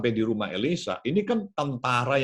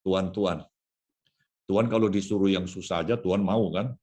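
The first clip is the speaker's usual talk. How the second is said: gentle coaxing; 4 semitones lower than usual. Acted. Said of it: "prajuritnya kasih tahu".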